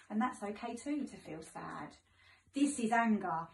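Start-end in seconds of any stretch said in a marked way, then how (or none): 0.1-2.0 softer, gentle comfort; reassuring. Real, not acted. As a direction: tell them softly it's fine. Reassuring children about sadness.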